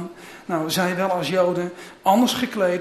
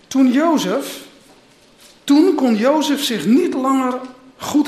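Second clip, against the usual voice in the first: steady, measured scripture reading; Bible reading. Acted. Pastor reading scripture to the church, measured. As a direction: read the Genesis passage to the congregation. Reads Genesis aloud.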